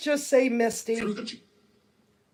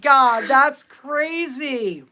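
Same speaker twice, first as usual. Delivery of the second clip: amazed; 3 semitones higher, 6 dB louder, much slower than usual. Real, not acted. Spirit box reply amazes her.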